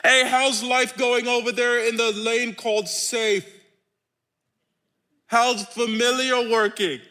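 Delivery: light playful call; lightly voiced Jesus; teasing Jesus. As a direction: poke fun gently. Preacher voicing Jesus teasing.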